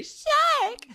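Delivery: loud high yell of shark; shouted warning. Retold or imitated. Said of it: "I'd say".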